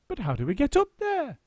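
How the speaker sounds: little monkeys unsure; high fretful monkey chorus; worried monkeys. A narrator's reading. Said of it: "they asked".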